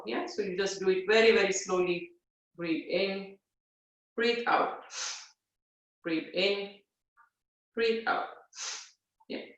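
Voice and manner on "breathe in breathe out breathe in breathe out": soft, unhurried breath counting; gentle yoga cueing; guided breathing cues. Shown as a demonstration. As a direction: talk them through each breath quietly. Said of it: "so you're breathing forcefully through your nose".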